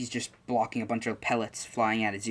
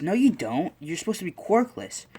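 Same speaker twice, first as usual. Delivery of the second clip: much higher, louder, mocking kid voice; scoffing classmate kid; 8 semitones higher, 4 dB louder than usual. A classmate mocks Izuku for claiming a quirk, high and scoffing. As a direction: shoot him down like a playground bully.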